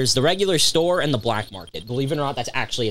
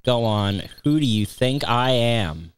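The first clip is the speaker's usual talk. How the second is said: slow, measured shopkeeper voice; slowly voiced game merchant; slower than usual. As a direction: draw it out word by word as a shopkeeper.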